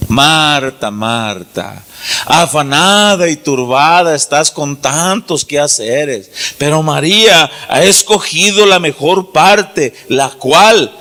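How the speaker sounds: low, slow, tender rebuke; Jesus gently telling Marta to slow down; gentle Jesus. Acted. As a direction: speak like a patient teacher correcting a friend. Preacher voices Jesus speaking to Marta.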